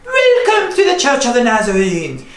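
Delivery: a fake British greeting; mock British. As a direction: welcome them like an English vicar. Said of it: "exactly how people in England sound".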